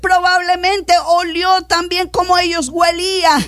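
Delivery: insistent, sustained pulpit fervour; impassioned preaching. Acted. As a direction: preach it with rising urgency. Preaches at full force.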